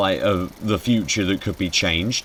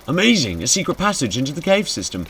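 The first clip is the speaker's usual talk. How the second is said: excited; 8 semitones higher, 4 dB louder than usual. Acted. Excited discovery in game.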